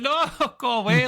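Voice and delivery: high, mock-frightened girly squeal; little girl scream. Retelling to friends being chased in a horror game, mock girly scream. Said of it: "screaming like a little girl".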